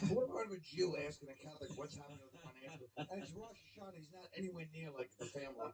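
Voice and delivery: mouth full. Real, not acted. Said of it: "Why are you talking with food in your mouth?".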